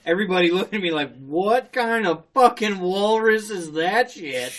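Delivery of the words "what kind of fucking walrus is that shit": slow, emphatic mock disbelief; imitating stunned onlookers. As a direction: gawk aloud at a bizarre sight. Onlookers staring as he surfaces.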